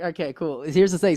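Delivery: ordinary talk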